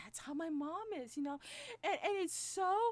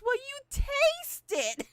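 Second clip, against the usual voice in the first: mom's voice; 12 semitones higher, 13 dB louder, slower than usual. Retold or imitated. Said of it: "And she goes".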